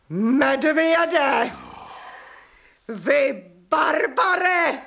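slow, pausing, building furious insults. Acted. Widow hurling insults at the landowner, building fury. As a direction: spit out each insult slowly.

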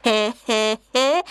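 soft, held-back he he he; a small timid chuckle; quiet laugh. Acted. Hyena starting a quiet laugh with the lion cub. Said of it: "začneme spolu docela tichounce".

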